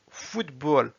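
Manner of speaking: "Football" as Russian "futbol", falling; Russian pronunciation. Shown as a demonstration. Teacher reading words with learners, "Football" in Russian. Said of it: "s'entraîner à lire les mots".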